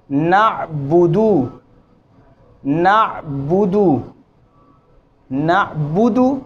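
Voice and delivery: नअबुदु very slow, each vowel one beat; even short vowels. Shown as a demonstration. Teacher showing equal vowel lengths. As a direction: recite नअबुदु slowly with equal beats. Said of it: "तीनों हरकात की मिकदार एक जैसी है".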